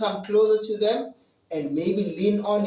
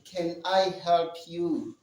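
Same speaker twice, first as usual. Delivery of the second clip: polite offer. Shown as a demonstration. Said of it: "you're saying".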